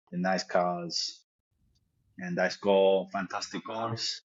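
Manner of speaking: put-on Leeds accent slipping in. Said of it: "heard more comfort coming from the Leeds accent".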